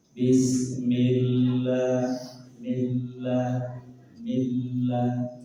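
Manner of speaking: "millah" dengan l tipis, bukan tebal. Shown as a demonstration. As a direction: tiru logat yang menipiskan "millah". ("millah" dibaca tipis karena logat)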